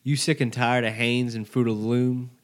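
wrestling promo. Acted. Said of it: "We'll cut a promo".

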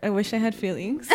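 laughing self-quote. Real, not acted. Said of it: "I want that on a shirt".

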